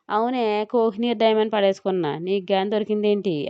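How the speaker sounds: mild mocking, words drawn out; sarcastic drawl. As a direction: lightly tease her, stretching it. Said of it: "వ్యంగ్యంగా సాగదీసి". (వ్యంగ్యంగా సాగదీస్తూ)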